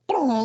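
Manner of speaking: high, popped fart noise; comic blurted sound effect; imitated fart. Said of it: "then she starts farting".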